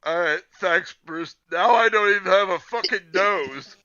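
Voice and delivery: lightly voiced bitter thanks; Harvey voice. Friend voices disfigured Harvey, mild mock grumble. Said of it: "It's like".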